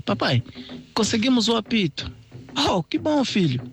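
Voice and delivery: high cheerful character voices; proud little ones showing their papa; children and father voiced. Young crocodiles showing the whistle to papa, high cheerful voices.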